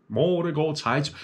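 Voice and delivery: Morgen geht's heim zu in Graubünden dialect; Bündner dialect. Shown as a demonstration. Comedian repeating apprentice's farewell in a Graubünden accent. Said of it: "Das heisst".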